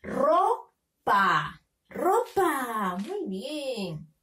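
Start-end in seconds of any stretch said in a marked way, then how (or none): 0.0-1.6 Ropa split as RO, pause, PA; teacher's two-beat sounding-out of Ropa; syllable by syllable. Shown as a demonstration. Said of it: "Tenemos que leer". 1.9-3.0 Ropa blended into one word; teacher joining RO and PA into Ropa; syllables joined. Shown as a demonstration. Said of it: "unirlo para formar la palabra".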